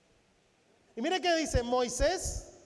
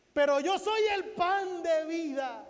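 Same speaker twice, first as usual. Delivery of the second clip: proclaiming. Acted. Preacher voices Jesus proclaiming.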